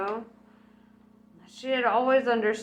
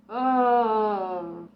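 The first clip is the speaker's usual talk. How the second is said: low moan; 5 dB louder than usual. Acted. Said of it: "she let out a low moan".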